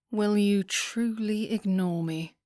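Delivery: slow, lazy rake's drawl; lightly voiced rakish lord drawling. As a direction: tease her, stretching the words. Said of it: "Riley asked in his rakish drawl".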